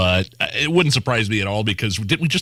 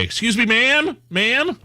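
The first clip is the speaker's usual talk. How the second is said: higher, sing-song mock of the man calling; polite stranger; 12 semitones higher, slower than usual. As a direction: gently call her from far away. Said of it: "this woman that was overreacting".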